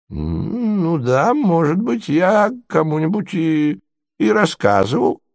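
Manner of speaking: put-on high, faltering old prince; utterly lost prince. Prince confirms to the ladies, faltering and lost. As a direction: stammer it out, completely lost. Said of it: "подтвердил совершенно потерявшийся князь".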